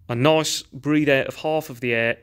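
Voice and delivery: long easy sigh out before speaking; relaxed breath out. Shown as a demonstration. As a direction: let half the air out in a calm sigh. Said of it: "this habit of saying to yourself".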